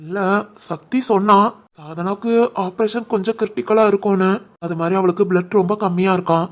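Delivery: husband confessing worry about his sister's surgery, softly; subdued worry. Acted. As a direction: admit the fear quietly. Worried about sister's operation.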